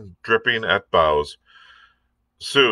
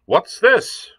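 much higher, sharp pirate question; pirate demanding; 13 semitones higher than usual. A narrator's reading. Long John challenges the sailors with a sharp pirate question. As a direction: snap the question at the crew.

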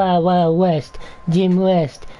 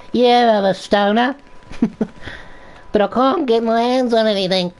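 helium voice. Real, not acted. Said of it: "Why does your voice sound like you're on helium".

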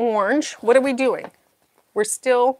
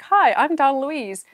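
mock announcer intro; 4 semitones higher, 4 dB louder, slower than usual. Shown as a demonstration. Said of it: "I'll be like".

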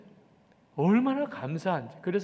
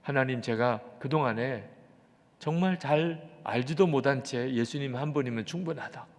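lower, subdued confession to God; repentant prayer; 3 semitones lower than usual. Retold or imitated. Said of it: "그리고는 회개가 터졌어요". (낮게 가라앉은 회개 기도 재연)

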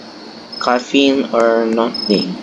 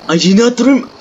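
whining much higher in frustration; high whine; 9 semitones higher than usual. Real, not acted. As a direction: complain in a high, pinched whine. Frustrated at failing order.

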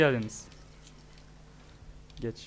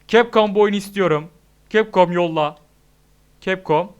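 loud plea; 7 dB louder than usual. Real, not acted. Begging the company loudly.

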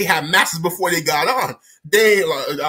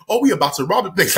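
quicker, mildly excited mock announcement; faster than usual. Imagined robbers announcing the plan, mildly excited. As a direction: say it with a touch of excitement. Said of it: "in an excited manner".

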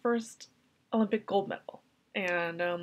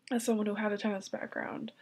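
tearful, breaking into a whisper; crying. Real, not acted. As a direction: barely hold back real tears. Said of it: "I can't stop crying".

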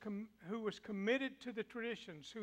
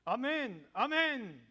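firm, raised amen; affronting amen; 3 semitones higher, 7 dB louder, slower than usual. Acted. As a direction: confront him with amen. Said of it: "it's an affrontive statement".

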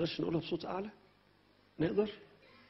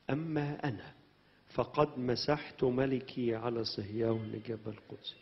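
scripture reading; 2 semitones lower, much slower than usual. Acted. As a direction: recite each verse slowly to the church. Reads verse slowly. (قراءة المزمور ببطء)

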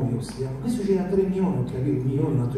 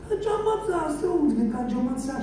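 furious shrieking man; 12 semitones higher, 6 dB quieter than usual. Retold or imitated. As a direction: screech it like a raging brute. Enraged man repeated.

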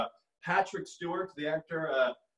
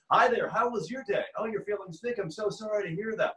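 higher, radio-announcer chat; resting impression voice; 5 semitones higher than usual. Shown as a demonstration. Consoling someone who feels sick, in put-on radio voice. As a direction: make small talk like a human radio. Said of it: "I have resting impression voice".

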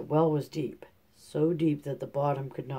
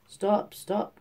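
higher, louder call of stop; frog crying out; 6 semitones higher, 4 dB louder than usual. A narrator's reading. Frog calling after the fleeing princess, higher and louder. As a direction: call after her as she runs off. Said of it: "cried the frog".

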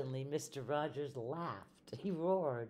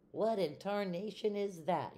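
shocked; 5 semitones higher, 3 dB louder than usual. Acted. Mister Rogers shocked at bread.

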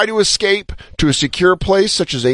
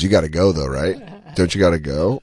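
mock buddy; 10 semitones lower, 4 dB quieter than usual. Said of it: "He goes".

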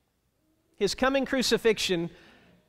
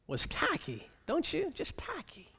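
hushed aside; 3 semitones higher, 13 dB quieter than usual. Real, not acted. Preacher judging the request.

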